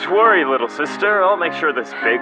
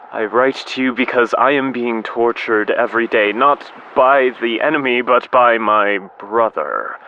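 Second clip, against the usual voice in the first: declaimed, tormented letter; bitter confession; 2 semitones higher than usual. Acted. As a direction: build to an anguished accusation. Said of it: "confess my bitter feelings".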